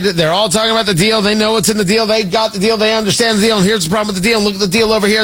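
auctioneer. Acted. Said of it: "sound very close to an auctioneer".

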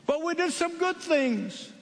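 high, anxious begging; pleading foolish ones. Acted.

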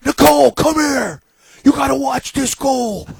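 high, loud, slow call; calling his wife in to see the goal; yelling for wife. Retold or imitated. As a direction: holler her over to the TV. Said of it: "I yelled at my wife".

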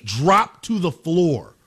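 slow emphasis. Real, not acted. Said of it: "my jaw dropped".

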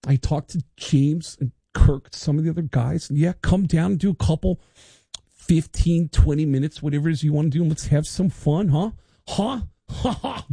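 a hint of Lars, chuckling at the end; Lars on voicemail. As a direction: leave a casual message as Lars. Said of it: "He called me back and said".

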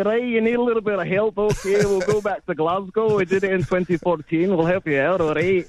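put-on a light, lifted Scottish accent, breezy and helpful; just a hint of a friendly Scottish accent, playing the Scots. The Scots offering to help out, in a light Scottish accent. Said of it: "your Scottish one".

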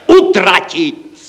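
high, loud, drawn-out cry; exclaiming. Acted. Narrator offers colleagues the solution, exclaiming. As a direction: shout UTRATIT as the sudden solution. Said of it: "zvolal jsem já".

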